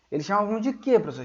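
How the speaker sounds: ordinary talk, nothing marked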